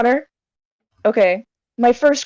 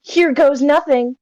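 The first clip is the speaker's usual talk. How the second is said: anime protagonist voice; 3 semitones higher, slower than usual. Acted. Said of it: "trying to sound like an anime protagonist".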